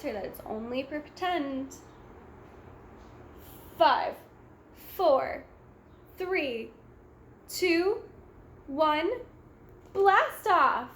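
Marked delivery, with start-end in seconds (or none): 3.8-10.9 counting down, rising to a loud high blast off; excited countdown. A narrator's reading. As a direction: build it up to liftoff. Countdown to rocket launch.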